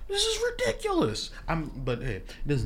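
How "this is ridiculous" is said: high-pitched incredulous rant; outraged. Real, not acted. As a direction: voice shoots up in disbelief. Outraged about Louisiana Purchase.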